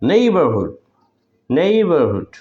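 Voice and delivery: নেইবারহুড with নেই pressed, then falling; careful, emphatic নেইবারহুড, repeated; clear stressed pronunciation. Shown as a demonstration. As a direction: lean on the first syllable of নেইবারহুড. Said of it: "স্পষ্ট এবং জোর দিয়ে উচ্চারণ করতে হয়".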